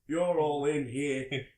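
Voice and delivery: loud, slow, drawn-out ranting in a put-on voice; imitating a screaming man. Homeless man yelling at the diners, slow and loud. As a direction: ham up a raving stranger at the door. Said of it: "was screaming at everyone".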